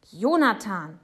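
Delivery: loud, startled exclamation; shocked. A narrator's reading. Father startled by his son's rudeness, shocked and loud. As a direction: say the name aghast. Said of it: "sagt Papa erschrocken".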